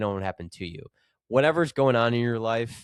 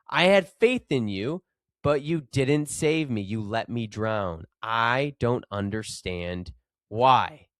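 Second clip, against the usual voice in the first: exclaimed complaint; slower than usual. Acted. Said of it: "he exclaimed".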